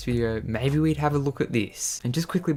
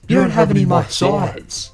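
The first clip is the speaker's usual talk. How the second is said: high, loud, put-on complaining voice; shrill entitled customer; 8 semitones higher, 7 dB louder than usual. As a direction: whine it like a spoiled customer.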